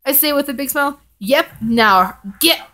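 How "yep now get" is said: put-on slow, much higher cheeky child voice; a toddler bossing daddy around, pitched up; little boy. A narrator's reading. Son voiced in read story.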